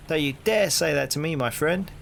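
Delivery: hearty London copper, rising into the question; cheery Cockney policeman greeting a stranger; cockney bobby. Acted. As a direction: play the nosy beat cop on his rounds. Policeman warns.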